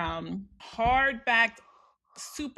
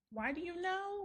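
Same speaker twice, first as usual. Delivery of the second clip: mock whisper; 7 semitones higher, 10 dB quieter, slower than usual. Mimicking Meredith's face.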